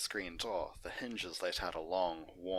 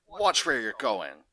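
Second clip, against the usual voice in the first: much louder, slow shout; city shout; 3 semitones higher, 12 dB louder, slower than usual. Acted. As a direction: yell at the big pony. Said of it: "greeted with shouts of".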